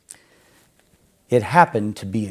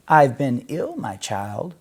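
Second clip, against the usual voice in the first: croaking; 3 semitones higher than usual. Acted. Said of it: "croaked the wolf".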